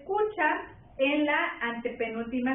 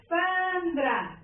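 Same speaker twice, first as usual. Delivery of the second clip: Sandra with a long drawn-out SAN; stressed syllable; 4 semitones higher than usual. Shown as a demonstration. Teacher showing the class where Sandra is stressed, first syllable drawn out. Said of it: "Escucha la sílaba tónica".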